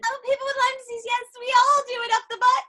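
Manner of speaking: playful put-on British accent, a little high; mock British accent. Friends joking about coffee enemas, mock British accent. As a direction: lightly fake a British accent, quickly. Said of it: "Now we're in England".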